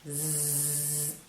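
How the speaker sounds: soft buzzing like a fly; quiet zzz of a fly. Shown as a demonstration. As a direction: make a little fly buzz. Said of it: "Une mouche".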